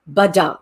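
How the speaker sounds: ba-dum with weight on dum; iamb rhythm. Shown as a demonstration. Teacher demonstrating an iamb to the class, rhythmic. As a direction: tap out one da-DUM beat. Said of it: "a unit of rhythm that goes".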